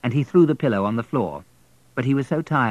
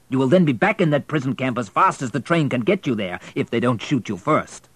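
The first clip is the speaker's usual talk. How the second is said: threatening station master; 4 semitones higher, 4 dB louder than usual. Acted.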